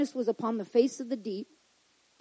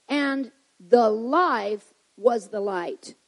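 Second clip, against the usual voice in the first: measured preacher's scripture reading; 4 dB louder than usual. Acted. Preacher reading John to the congregation, measured. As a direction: read the verse like a sermon.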